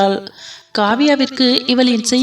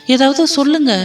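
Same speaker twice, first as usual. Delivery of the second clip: anxious pleading; 3 semitones higher than usual. Acted. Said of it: "எனக்கு ரொம்ப பயமா இருக்கு".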